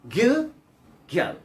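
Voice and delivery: put-on good girl linked with the D dropped, "goo-girl"; assimilated good girl. Shown as a demonstration. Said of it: "but assimilation it comes".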